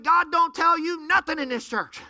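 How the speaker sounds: angry outburst. Retold or imitated. Pastor snapping at the troublemaker, high and loud. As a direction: flare up at him, loud and high. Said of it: "I just flew off the handle".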